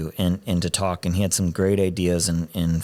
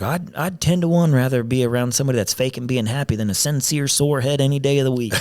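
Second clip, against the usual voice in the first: put-on lightly done Southern accent, a bit higher; 5 semitones higher than usual. Quoting his old mentor in a mild Southern accent. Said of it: "just in that Southern accent".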